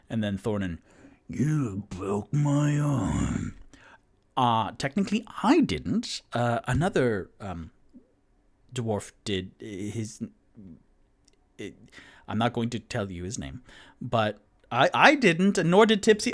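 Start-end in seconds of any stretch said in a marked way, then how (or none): 1.3-3.5 slow, hissed threat; menacing whisper. Acted. Thornin confronting Toot Toot about his arm, slow whisper. 4.4-16.3 nervous Toot Toot. Acted. Toot Toot excusing himself nervously.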